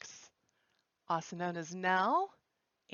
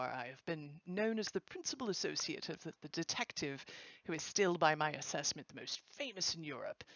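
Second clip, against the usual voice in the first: attempted Mid-Atlantic accent, lightly put on; terrible mock accent. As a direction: read it in a badly faked Mid-Atlantic accent. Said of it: "pardon my terrible accent".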